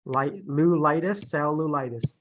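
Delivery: "li-", "lulitis", then "cellulitis", syllables added backward; built from the end. Shown as a demonstration. Teacher showing how to start from the end, piece-by-piece "cellulitis". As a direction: build "cellulitis" up from its last part. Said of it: "start from the end first".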